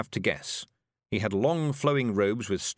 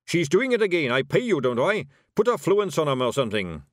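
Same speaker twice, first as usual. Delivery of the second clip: loud, higher, exasperated dwarf; angry dwarf; 6 semitones higher, 6 dB louder than usual. Acted. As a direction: push the useless wizard to act. Dwarf berates his wizard.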